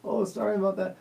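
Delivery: high, flustered laughing oh-oh-sorry; mock flustered apology; embarrassed apology. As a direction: mimic an embarrassed stranger backpedalling. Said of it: "She was like".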